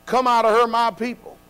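called out loud from the pulpit; shouting. Shown as a demonstration. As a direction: shout it to the congregation. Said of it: "I'm shouting".

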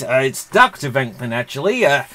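bad, lightly voiced impression; a half-hearted go at a laid-back film star; Bill Murray. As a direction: do a poor celebrity impression, close to your own voice. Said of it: "This isn't a good Bill Murray impression".

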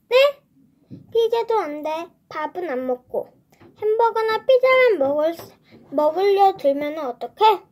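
a touch of a scolding mom, half-acted; angry mom. Mom scolding the boy, lightly voiced. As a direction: mom snapping at a fussy eater. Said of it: "엄마가 준혁이에게 버럭 화를 냈어요".

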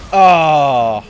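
long, loud falling groan. Real, not acted. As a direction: let out a big drawn-out groan. Release after screaming.

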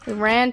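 "Iran" said as eye-RAN; "Iran" starting like "eye"; eye-RAN pronunciation. Shown as a demonstration. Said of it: "how you actually pronounce that".

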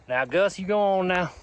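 lightly imitated cowboy partner; Woodrow Call. Fan playing the partner answering Gus, cowboy impression. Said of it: "and Woodrow Call".

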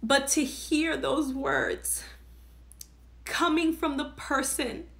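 holding back real tears while recalling it; getting emotional. Real, not acted. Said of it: "I'm sorry that I'm getting emotional".

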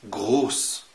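جروس with a hard G; German G. Shown as a demonstration. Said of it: "هاجي مثلًا أقول لك". (جروس بجيم مصرية)

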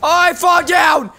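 high-pitched cry of falling; yelled in high-pitched dismay; alarmed shout. Real, not acted. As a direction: shout it out as you fall. Calling out a fall in game.

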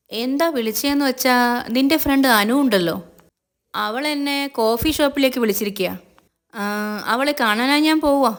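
lightly voiced boss teasing Chandrika; Siddhu, lightly voiced.

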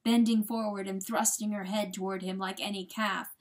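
ordinary delivery

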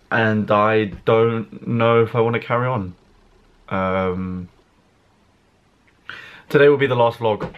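low, halting downcast announcement with long pauses; mock-sad farewell, mostly low-pitched; fake near-crying. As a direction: feign being close to tears, hesitant and heavy. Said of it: "I've just tried to cry for nothing".

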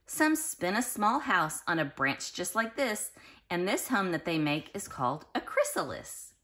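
lilting read-aloud storybook voice; sing-song storybook reading; reading to children. Acted. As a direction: read it like a bedtime picture book to little kids. Reads picture book to children.

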